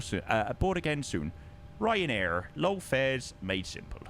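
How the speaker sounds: lightly voiced cabin announcement; airline announcement. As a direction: recite it as a cabin announcement to passengers. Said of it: "the Ryanair thank you fly announcement".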